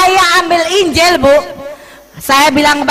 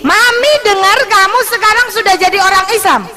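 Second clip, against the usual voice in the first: mother scolding her daughter, raised voice; 7 semitones higher than usual. Retold or imitated. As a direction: confront the daughter.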